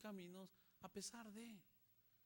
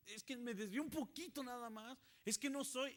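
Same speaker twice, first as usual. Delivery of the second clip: higher, louder defensive whine; whiny excuse; 8 semitones higher, 9 dB louder than usual. Acted. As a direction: protest like a caught child. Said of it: "Y tú piensas". (excusa quejumbrosa, más aguda y fuerte)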